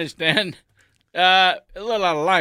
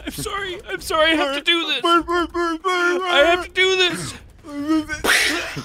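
high-pitched; 12 semitones higher, much slower than usual. Acted. Apologizing before forcing gun.

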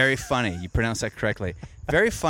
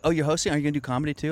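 mocking club patron; 6 semitones higher, much faster than usual.

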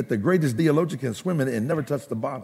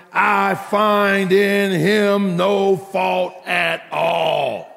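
preaching; 6 semitones higher than usual. Acted. Preacher announcing the last point to the congregation, preaching. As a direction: proclaim the verse with ringing long words.

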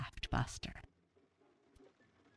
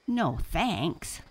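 light, amused refusal, pitched up; laughing; 4 semitones higher, 5 dB louder than usual. A narrator's reading. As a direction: turn it down with a touch of laughter. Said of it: "laughed Sam".

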